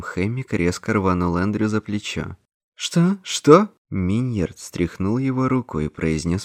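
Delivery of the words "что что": loud, high-pitched "what?"; stunned, escalating outcry; shocked. A narrator's reading. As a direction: blurt it out in shock, voice leaping up. Shocked reaction to a death.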